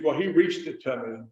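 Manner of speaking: "reached" with a long ee; "reached" clearly, rhyming with beached; standard REACHED. Shown as a demonstration. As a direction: say "reached" in standard pronunciation within country phrasing. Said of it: "I would use".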